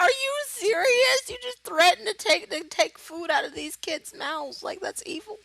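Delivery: incredulous protest at a villain; shocked disbelief. Retold or imitated. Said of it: "I'm like".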